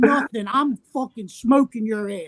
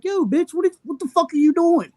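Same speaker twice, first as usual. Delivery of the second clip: higher pitched, indignant yell at her; retold yell; 6 semitones higher than usual. Angry storyteller yelling at the thief at the kiosk. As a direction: call her out, pitched up high.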